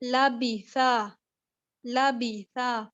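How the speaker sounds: لبیثا with لام and با kept thin, not heavy; لبیثا light and thin, no heavy لام; thin light letters. Shown as a demonstration. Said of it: "تو آپ نے اس کو باریک پڑھنا ہے".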